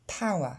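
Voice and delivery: power as one glided paa; English power. Shown as a demonstration. Teacher models the right power after the wrong split. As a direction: power smooth, ow merged, no r. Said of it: "pensez bien".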